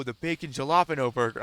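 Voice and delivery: imitated waiter saying "jalapeno" with a hard J; copied mispronunciation. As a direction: echo "jalapeno" wrong, with an English J. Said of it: "I got him to say it".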